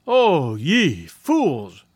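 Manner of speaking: very slow, drawn-out scolding; chiding. A narrator's reading. Tai scolding his own hunters, slow and chiding. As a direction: drag out the scorn on each word. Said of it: "Tai chided".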